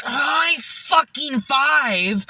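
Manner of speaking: high, slow drawn-out high five call; slow triumphant cheer. Retold or imitated. Celebrating after bombing, slow high triumphant cheer. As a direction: stretch it out like a victory cheer. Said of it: "I'm like".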